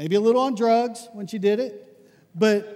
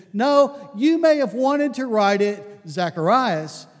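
firm correction; 2 semitones higher, 4 dB louder than usual. Retold or imitated. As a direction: overrule them firmly. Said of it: "He says".

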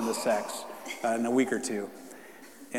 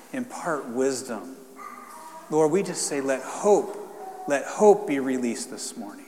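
prayer. Acted. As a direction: pray over them with fervor. Leads a prayer.

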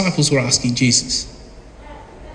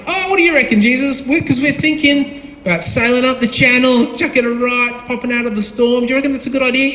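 mock casual question; 4 semitones higher than usual. Mock casual disciples asking Jesus.

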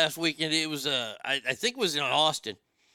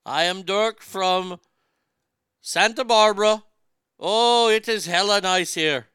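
high, loud laid-back surfer customer service voice; Dirk voice; 6 semitones higher, 5 dB louder than usual. Pretend. Call center rep Dirk greets a customer in a higher, louder surfer voice. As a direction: draw out "Santa Barbara" like a chill dude. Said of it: "I only say it in the Dirk voice".

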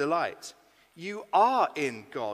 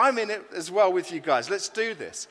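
eager, raised voice joining in; thrilled; 4 semitones higher, 7 dB louder than usual. Retold or imitated. Preacher retelling how he joined the young adults' Bible plan, thrilled. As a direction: jump in loudly with keen enthusiasm. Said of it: "I was absolutely thrilled".

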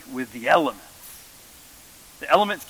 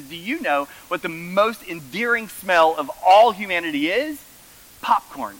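enthusiastic mom; 4 semitones higher, 3 dB louder than usual. Retold or imitated. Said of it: "she is so enthusiastic".

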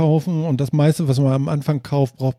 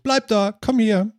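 lightly acted call, pitched up; higher-pitched call, only half raised; mock calling out; 5 semitones higher than usual. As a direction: pretend to call a dog across a field. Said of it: "du stehst auf dem Feld und rufst".

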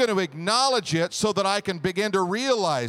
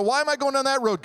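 puzzled question; 6 semitones higher, faster than usual. Retold or imitated. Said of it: "and go".

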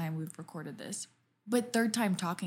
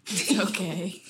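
teasing copy of the line; mocking imitation of friend; imitating her; 3 dB louder, slower than usual. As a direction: mimic the "It's okay" louder. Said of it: "You go".

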